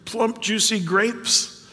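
slow, longing talk of juicy grapes; mildly hammed-up hunger; craving prophet. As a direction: linger on the food like you're starving. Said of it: "Micah's using this".

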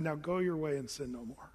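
kind release. Shown as a demonstration. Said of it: "his countenance was lifted up toward this woman".

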